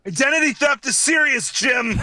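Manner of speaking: high-pitched mock outcry; mock outraged shout. Joking with co-hosts about a quoted line, mock outraged shout. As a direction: cry it out in hammed-up indignation.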